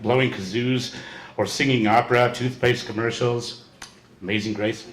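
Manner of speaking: measured poetry reading with punched openings; poem recitation. Acted. Reader performing a friend's poem to an audience, poem recitation. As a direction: declaim it line by line, letting endings fall.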